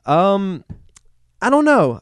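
booming high announcer call; loud hyped announcer voice; big announcer voice. Acted. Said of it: "a big announcer voice".

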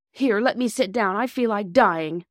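high, strained plea; suffering boy. A narrator's reading. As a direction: beg to sit down in pain. Narrator voices the boy in pain.

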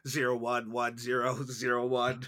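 binary numbers read like a robot; robot saying binary. Pretend. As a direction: say the digits as a computer. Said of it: "I said that's all, folks, in binary".

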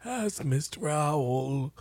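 slow mock old gentleman; Charles voice. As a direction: drag it out like a doddery old man. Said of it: "Is this gonna be your Charles accent".

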